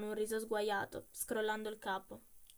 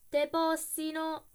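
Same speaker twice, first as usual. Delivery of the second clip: loud, slow, higher curse; cursing; 6 semitones higher, 7 dB louder, slower than usual. A narrator's reading. Coachman cursing the dead man, slow loud curse. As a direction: drag the Roman curse out in fury. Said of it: "esclamò tra i denti".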